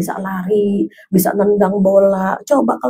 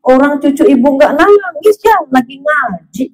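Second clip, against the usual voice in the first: higher, lively doting grandmother; retold grandma correcting her daughter, pitched up; grandmother's defence; 4 semitones higher, 3 dB louder than usual. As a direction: stand up brightly for the grandchild. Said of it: "ibu saya bilang".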